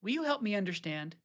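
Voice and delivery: gentle invitation. Shown as a demonstration.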